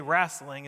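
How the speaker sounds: Wrestling said with a broad a, like rassling; the uncles' Wrestling, vowel opened to ah; family's way of saying Wrestling. Retold or imitated. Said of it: "my uncles and grandparents would always say".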